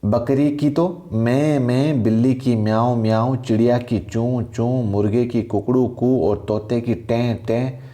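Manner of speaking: sing-song recital of animal noises; animal sounds repeated. Shown as a demonstration. Teacher repeating animal sounds for students to memorise, sing-song. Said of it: "एक बार वापस बोल देता हूँ".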